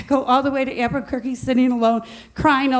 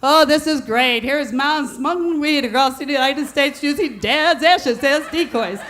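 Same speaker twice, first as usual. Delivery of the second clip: amused son. Retold or imitated. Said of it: "starts to laugh and goes".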